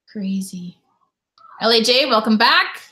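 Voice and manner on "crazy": breathy whispered "crazy"; whispered aside. Real, not acted. Streamer reacting to flood news, whispered in disbelief. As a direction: say it under your breath, amazed.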